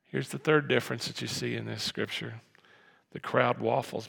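ordinary talk, nothing marked

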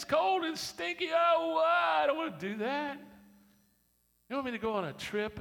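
high, loud mock whining; whiny churchgoer. Church member whining about nursery duty, high and loud mock whine. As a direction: complain like a spoiled volunteer. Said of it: "You ever feel that way in the church?".

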